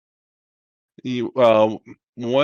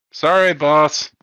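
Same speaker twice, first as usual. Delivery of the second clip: higher, louder, slow apology; sheepish crewman; 5 semitones higher, 7 dB louder than usual. Acted. Crewman apologises to his scolding boss, slow sheepish reply. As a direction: drag out a grudging sorry.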